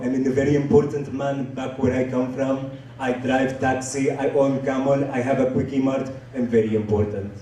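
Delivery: self-important man in a put-on foreign accent; Abdul. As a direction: boast evenly in a thick foreign accent. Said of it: "his name is Abdul".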